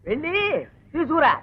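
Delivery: two separate, deliberate pieces; spaced-out order. Acted. Husband sends wife to fetch slips, spelling it out.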